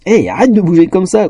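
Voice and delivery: a touch of laughter in a high scold; amused scolding. A narrator's reading. Elf scolding her fidgeting friend, amused. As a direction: chide while amused. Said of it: "continua-t-elle en riant".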